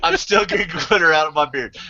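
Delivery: breaking into a laugh mid-sentence. Real, not acted. Repeating the glitter complaint to friends, laughing. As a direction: let the laugh slip through on glitter.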